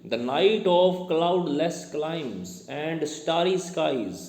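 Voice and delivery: very slow, stretched-out verse; poem recitation. Shown as a demonstration. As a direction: recite the line slowly, drawing out each word. Quotes the simile from the poem.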